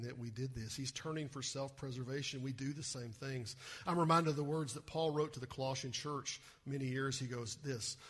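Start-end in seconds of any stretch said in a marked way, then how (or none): none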